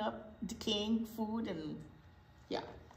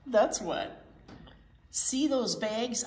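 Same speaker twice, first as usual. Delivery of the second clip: a lightly voiced swaggering truck; boastful garbage truck; slower than usual. Reading to kids, a cocky garbage truck brags. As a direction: brag like a proud garbage truck.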